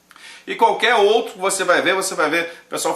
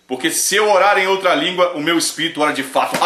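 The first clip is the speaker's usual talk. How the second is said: lightly mimicked preacher; 3 dB louder than usual. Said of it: "de repente ele falou assim".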